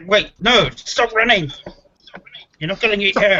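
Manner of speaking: half-orc calling to a fleeing woman. Acted. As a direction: shout after her to stop, reassuring.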